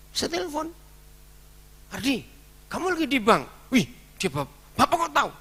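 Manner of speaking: surprised phone exchange. Retold or imitated.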